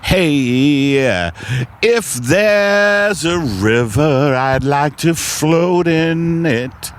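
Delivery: a light crooning lounge singer. Acted. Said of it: "breaking out into a lounge singer".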